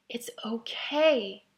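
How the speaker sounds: slow, breathy whispered reassurance; a slow disembodied whisper in a dream; eerie whisper. Retold or imitated. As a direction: whisper it like a voice from nowhere.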